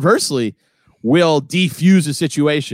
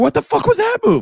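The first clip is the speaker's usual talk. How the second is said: much higher mock shout; retold furious yell; 3 dB louder than usual. Retelling yelling at a driver who ran a red light, furious. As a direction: fire it at the careless driver, hammed-up. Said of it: "I went".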